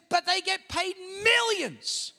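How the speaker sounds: imitating Sharon. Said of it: "and she goes".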